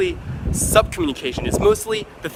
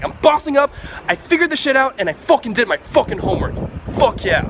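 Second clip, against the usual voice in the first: excited about homework; 7 semitones higher than usual. Shown as a demonstration. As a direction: sell boring homework like a huge win. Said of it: "talk about homework in the same way".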